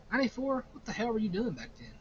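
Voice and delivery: surprised. Real, not acted. Reacting to a disappointing year.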